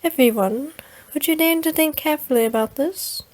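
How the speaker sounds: lightly put-on odd accent for Akasha; a hint of a strange accent, half-hearted; weird accent. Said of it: "let's just roll with a weird accent".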